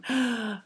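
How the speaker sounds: quick audible breath as a pause; sharp gasp marking the break; demo breath. Shown as a demonstration. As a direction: take a sharp breath between phrases. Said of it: "breath space".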